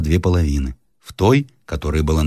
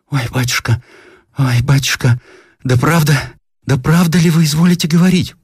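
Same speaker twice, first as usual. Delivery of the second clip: put-on higher and louder old woman, building in disbelief; an old woman who can't believe her ears; disbelieving old woman, voice climbing; astonished old woman; 9 semitones higher, 4 dB louder than usual.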